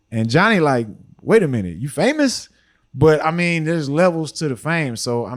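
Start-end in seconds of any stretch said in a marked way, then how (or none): 1.2-2.5 imitating a surprised question, pitch leaping up at the end; retold incredulous question; surprised double take. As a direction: act out a mild disbelief, rising sharply on the last word. Retold reaction of astonished Johnny.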